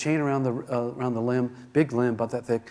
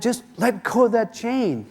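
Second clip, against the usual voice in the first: loud, higher calls up to a son in a tree; father yelling up at his son in the tree, loud and urgent; 7 semitones higher, 6 dB louder than usual. Retold or imitated. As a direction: shout the instructions up into the tree. Dad yells instructions up tree.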